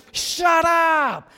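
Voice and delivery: loud, high, drawn-out shout; acted mob yell; crowd shout-down. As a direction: silence him angrily over the noise. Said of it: "the crowds are saying".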